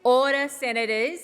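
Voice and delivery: loud, sharp call for order; shouting order order. Real, not acted. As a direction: raise your voice to silence the room. Chair calling the chamber to order.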